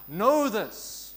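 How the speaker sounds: Know shouted out loud and falling. Shown as a demonstration. Preacher showing how Know this can be shouted. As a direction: call out Know this with full force. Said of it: "We can shout it".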